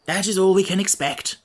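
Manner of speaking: light, pleasant reply; pleasantly. Acted. Scarecrow to Wogglebug, pleasantly forgiving. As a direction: let it go kindly. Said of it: "returned the Scarecrow pleasantly".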